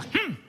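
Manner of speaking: short high disapproving "hmm"; hmm de reproche imitado. Retold or imitated. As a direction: imitate mom's displeased little grunt. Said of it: "Mi mamá me hacía". (gruñidito agudo de madre molesta)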